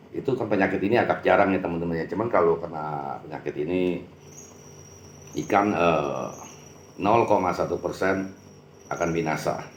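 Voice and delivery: talking while smoking; cigarette in mouth. Real, not acted. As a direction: speak around a cigarette. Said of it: "ngomong sambil merokok". (bicara sambil merokok)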